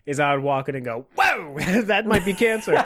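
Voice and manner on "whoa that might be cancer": higher-pitched startled reaction breaking into laughter; mock alarm. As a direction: play a tactless nurse, laughing. Acts tactless nurse walking in.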